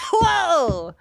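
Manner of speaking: high loud whoa; mock shock. Real, not acted. S0 reacting to the feminist agenda joke. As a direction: gasp it out in amused shock.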